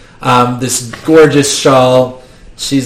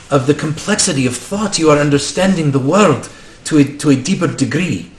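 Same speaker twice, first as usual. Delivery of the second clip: put-on Indian accent; 5 dB quieter than usual. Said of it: "I'm going for an Indian accent".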